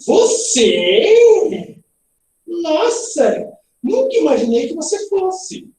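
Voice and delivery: high, drawn-out incredulous exclamation; astonished mother. Acted. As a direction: question and exclaim at once, playing shocked. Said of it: "um susto".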